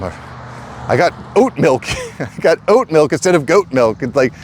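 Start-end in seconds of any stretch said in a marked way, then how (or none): 0.9-4.0 put-on whiny Karen voice, half laughing; lightly hammed-up Karen voice, a touch mocking. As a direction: send up a spoiled complainer with a giggle. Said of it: "the Karens who are just".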